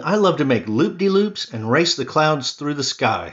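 bright bird delight; cheerful Bird. Acted. Bird telling friends about flying, lightly voiced happy bird.

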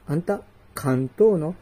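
usual speaking voice

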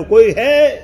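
mimicked echo of a shout; echoed call. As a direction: answer like a distant echo. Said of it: "સામેથી અવાજ આવ્યો".

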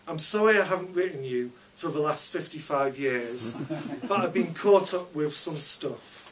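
lightly voiced old soldier writing home; grandpa's letter. Boy reading his fake letter from Grandpa to Grandma, lightly voiced. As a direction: read it as a fond old letter. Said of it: "What I wrote went a bit like this".

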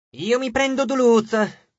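slow, high shouted claim. A narrator's reading. A third ghoul interrupting the talk, calling out slowly and high. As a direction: call out and stop the room. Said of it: "gridò un terzo".

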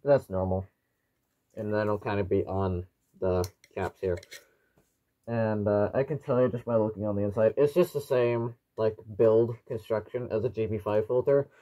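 muffled through a gas mask; speaking through a tight respirator mask. Real, not acted. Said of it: "You should be able to hear me, uh, quite clearly through the, uh, voice diaphragm".

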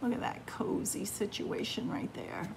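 soft whisper over the picture. Real, not acted. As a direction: hush it, cozy. Cozy picture, hushed.

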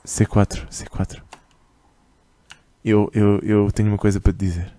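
prank caller. Pretend. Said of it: "autorizam-me a gozar com o C quatro".

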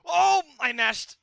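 high, loud, slowed groan of dismay; dismayed cry. Real, not acted. Gamer catching his own mistake, slow dismayed cry. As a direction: wail it out, slowly.

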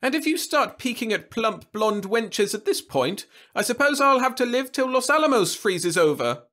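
put-on high, loud, sharp old lady retort; snapping back. A narrator's reading. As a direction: snap back at him. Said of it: "who snapped back".

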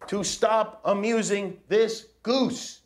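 hammed-up pompous command; mock decree. Dad reading the book to his kids, mock pompous decree.

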